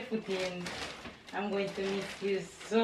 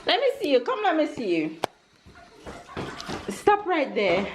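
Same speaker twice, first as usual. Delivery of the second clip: calling out; 7 semitones higher, 8 dB louder than usual. Real, not acted. Calling son to show outfit.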